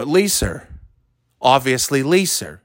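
"Lisa" said as "Leeser", with an added R; R on final A. Shown as a demonstration. Showing how New Englanders say L I S A, "Lisa" ending in R. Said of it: "Pronouncing R's as ah and ahs with R's".

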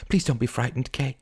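anxious pleading; begging. Acted. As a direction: beg a friend to stay calm. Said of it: "she begged".

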